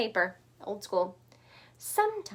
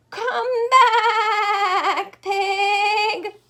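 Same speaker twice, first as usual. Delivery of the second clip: loud, higher bleating shout; 7 semitones higher, 12 dB louder, much slower than usual. Acted. Sheep calling after the fleeing pig, loud bleat. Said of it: "bleated the sheep".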